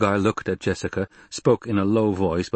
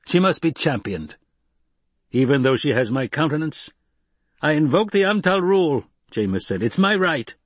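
much higher, louder demand; loud insistence; 7 semitones higher, 4 dB louder than usual. Acted. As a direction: claim your right, shouting. Jameis invoking his right.

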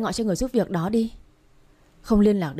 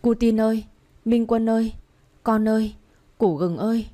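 put-on calling a lost child's name across the park, raised voice; calling out loudly; 4 semitones higher than usual. A narrator's reading. Mother searching the park for her son, calling out loud. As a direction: cry out for the missing son, pleading. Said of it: "Tôi gọi lớn".

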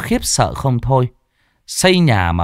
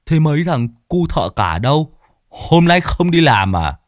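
Lâm asking, higher; 5 semitones higher than usual. A narrator's reading. Lâm asks about workers.

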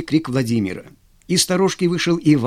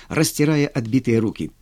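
usual speaking voice

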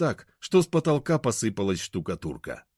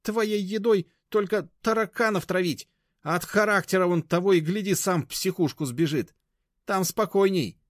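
high, loud, scornful; high-pitched contemptuous rant; withering mockery; 12 semitones higher, 4 dB louder than usual. A narrator's reading. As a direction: tear her apart. Grandmother insulting Mashka.

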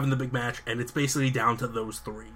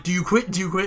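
referee demanding; 6 semitones higher, 4 dB louder, faster than usual. Retold or imitated. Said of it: "and he's like".

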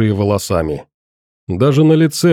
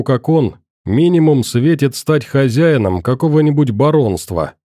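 ordinary delivery, nothing marked

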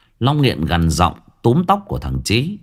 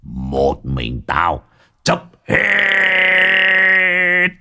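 a swaggering village thug boss, scornful; lightly voiced boss, sneering at old Tú; slower than usual. Gang boss mocking old Tú to his underlings, scornful. Long's menacing boast.

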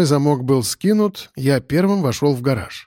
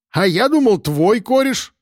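put-on surprised drunk; 8 semitones higher than usual. Ilyich stares at Piston in surprise, astonished. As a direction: turn on your pal, astonished.

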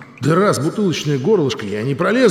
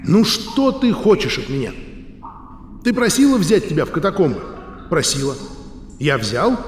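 lightly raised, impatient; 4 semitones higher than usual. Acted. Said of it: "Матвей повысил голос, словно разговаривал с капризным ребёнком".

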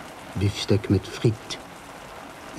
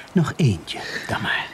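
whispered, almost conspiratorial; whispered giving in. Acted. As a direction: give in under your breath. Sergeant gives in quietly.

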